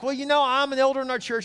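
mock a keen, chatty traveller; friendly stranger. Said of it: "he's like".

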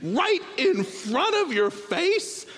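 high, slow scolding yell; a father scolding his daughter over a spilled drink; exasperated yell. Retold or imitated. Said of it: "I yelled at her once".

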